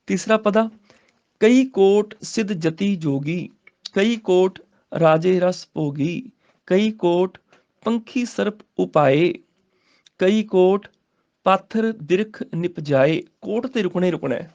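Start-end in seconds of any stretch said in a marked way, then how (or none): 1.4-13.2 slow, deliberate recital with long pauses; slow scripture recitation. Shown as a demonstration. Teacher modelling the verse for students, slow and deliberate. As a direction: lay out each phrase slowly.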